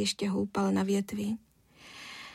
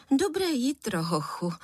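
mother's greeting; 4 semitones higher than usual. A narrator's reading. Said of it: "ozvala se paní Žihadlová".

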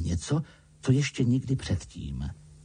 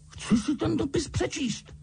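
loud demand; slower than usual. A narrator's reading. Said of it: "řekl hlasitě".

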